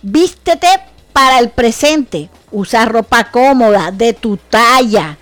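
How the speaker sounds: emphatic advice. Real, not acted. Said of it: "preaching advice louder".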